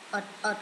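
At said on its own as a model; pronunciation of at. Shown as a demonstration. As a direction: show how At is read, as a separate word. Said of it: "cái này đọc là at nè". (đọc mẫu từ At)

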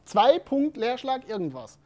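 slowly spelling out zwei Punkt Leerschlag irgendwas, word by word; slow dictation. Shown as a demonstration. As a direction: dictate each piece as if typing it. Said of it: "Sondern jemand hat geschrieben".

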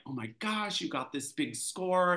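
lightly acted thrilled gushing; retold freaking out. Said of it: "I remember Sylvia freaking out".

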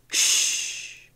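whispered shush; quiet the boy with a breath; hushing whisper. A narrator's reading. Skipper hushing the ranting boy, whispered. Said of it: "he said at last".

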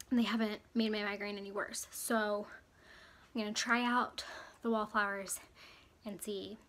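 slightly winded talking; short of breath, mild. Real, not acted. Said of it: "And I'm out of breath".

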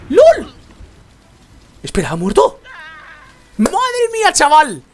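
high, loud disbelieving exclamations; shocked excitement. Real, not acted. Gamer stunned by a lucky kill, excited exclamations. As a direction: shout out stunned joy.

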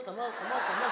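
soft, low muttered urging; impatient hurrying. Retold or imitated. Wife with things to do hurrying husband, quiet impatience. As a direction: urge him along under your breath.

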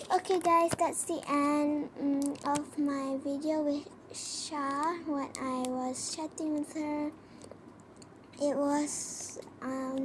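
upbeat youtuber sign-off; vlog outro. Acted. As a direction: wrap up the video for your viewers.

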